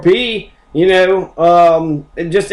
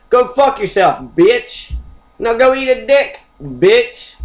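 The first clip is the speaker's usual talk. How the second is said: higher-pitched, punchy comic insults; mock insulting retort; 5 semitones higher, slower than usual. Host answers someone offended by happy holidays, mock hostile retort. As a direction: throw each insult as a hammed-up comeback.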